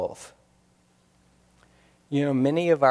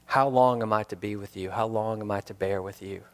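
quiet reflective reading; 4 semitones lower, 5 dB quieter than usual. Shown as a demonstration. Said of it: "how do you hear those words".

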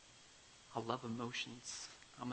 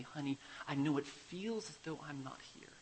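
softer, tender father soothing his daughter; soft fatherly comfort fading to a whisper; soft and kind; 4 dB quieter than usual. Retold or imitated. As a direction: gently reassure a frightened child. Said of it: "very softly and kindly".

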